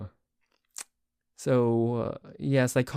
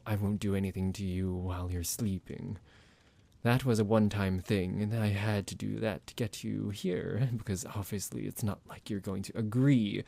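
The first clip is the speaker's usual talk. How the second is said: psychotic vampire; 2 semitones lower than usual. Acted. Psychotic vampire roleplay audio.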